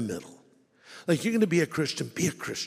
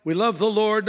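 lightly higher, airy excuse-making; mock excuse voice; 5 semitones higher, 3 dB louder than usual. Preacher imitating cohabiting Christians with a mild mock excuse. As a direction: imitate a casual couple justifying themselves. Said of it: "Or you might say".

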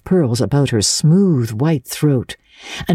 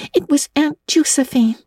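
gasping with laughter; 12 semitones higher than usual. A narrator's reading. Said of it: "gasping with laughter".

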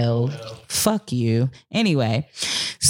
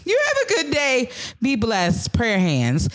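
mock sweet voice; 6 semitones higher than usual. Mocking a fake-nice text.

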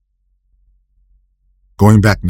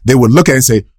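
normal talking voice

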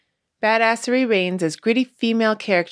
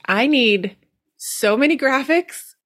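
laughing; 5 semitones higher than usual. Pretend. Quoting herself, overwhelmed.

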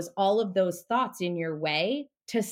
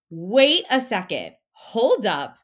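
a louder, slowed alarm call; alarmed brain; 6 dB louder, slower than usual. Retold or imitated. Brain halts you before something new, alarmed and loud. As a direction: stop her in her tracks, loud and slow. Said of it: "your brain goes".

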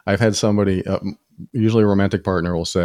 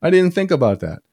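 amused realization; 7 semitones higher than usual. Retold or imitated.

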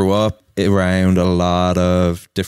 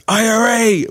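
imitating a much higher, louder chant of the letters; excited cheer; 3 dB louder than usual. Old Sudanese man naming Irish things, excited high shout. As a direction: punch out each letter like a rally chant.

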